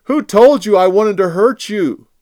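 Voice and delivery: high, loud, earnest appeal; David pleading with King Saul from afar; impassioned plea. Acted. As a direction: plead your innocence with all your heart.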